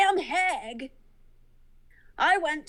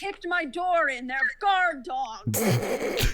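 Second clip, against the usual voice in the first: mild indignant protest, starting higher; aggrieved homeowner; 4 semitones higher, slower than usual. Acted. Homeowner complaining about his kicked-in door, mildly indignant. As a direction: protest it, dragging out the last words.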